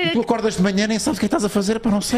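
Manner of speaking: high, dazed and lost; confused waking voice. Pretend. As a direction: play someone just waking, baffled. Acting confused waking listener.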